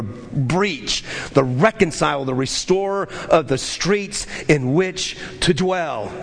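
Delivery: low, rolling run through the verses; scripture reading. Acted. Preacher reading the promised restoration to the congregation, low steady scripture reading.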